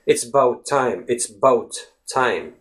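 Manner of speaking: "It's about time" said as "It's 'bout time"; "It's 'bout time", as if the A weren't there; dropped schwa. Shown as a demonstration. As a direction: leave out the A of "about" so it sounds like "bout". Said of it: "It's as if you're saying".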